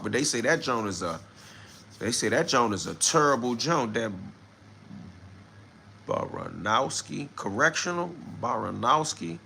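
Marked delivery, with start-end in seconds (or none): 6.1-9.4 puzzled second try at "Baranowski"; repeating the name. Real, not acted. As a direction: roll "Baranowski Correctional" around, trying it on. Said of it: "I wonder why would they name that that?".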